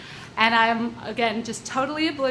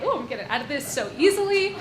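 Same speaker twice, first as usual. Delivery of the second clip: excited thought; 3 semitones higher, faster than usual. Retold or imitated. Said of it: "excitedly dig in my purse".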